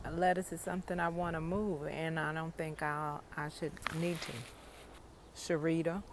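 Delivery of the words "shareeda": "Sharita" in a hood accent, with a D for the T. Shown as a demonstration. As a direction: say "Sharita" hood-style, the T turned to a D. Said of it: "say it with a hood accent".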